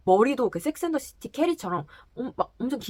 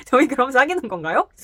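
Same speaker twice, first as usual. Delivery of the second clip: mock flirty question; 5 semitones higher, 9 dB louder than usual. Drunk woman leaning in to kiss.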